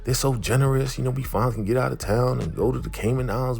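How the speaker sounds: lightly acted, eager and high; retold happy gushing. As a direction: imitate her delighted rush of plans. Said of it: "she's so happy to go".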